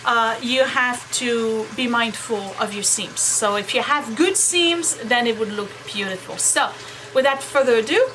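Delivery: washing machine running in background; machine noise behind. Real, not acted. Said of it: "sorry about the machine, doing laundry".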